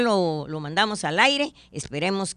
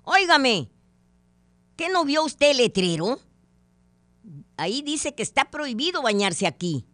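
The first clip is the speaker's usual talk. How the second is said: much higher and louder, scolding bark; angry shout; 8 semitones higher, 6 dB louder than usual. Retold or imitated. Forest ranger scolding the man in the lake, angry shout. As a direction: yell at him like a furious ranger. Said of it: "le grita enojado".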